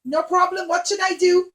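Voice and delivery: bow and scrape eagerly; eager clown. Acted. Clown answers the princess, eager to please. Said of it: "and he said".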